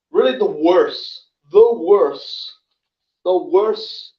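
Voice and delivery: repeating words while stumbling; stammer, restart the phrase; stuttering. Real, not acted. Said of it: "sorry about my stuttering".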